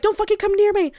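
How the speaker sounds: high-pitched, distressed imitation; upset warding-off. She orders the man away from her, high upset retelling. Retold woman warding off lover.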